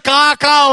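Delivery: plain imitated "Ka, ka"; ordinary crow caw. Preacher showing every nation's crow, plain "Ka, ka". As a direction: caw a simple open "Ka, ka". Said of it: "Every nation crow said".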